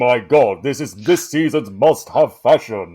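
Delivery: loud, slow, gushing fashion-lover villain; Darth Vader as it girl. Pretend. Player imagines a villain as an it girl, hammed-up gushing. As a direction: stretch out each word like an over-excited socialite. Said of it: "if Darth Vader was, like, an it girl".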